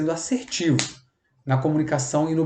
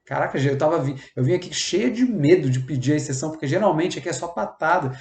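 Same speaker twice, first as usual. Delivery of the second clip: relieved surprise. Retold or imitated. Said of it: "E ela".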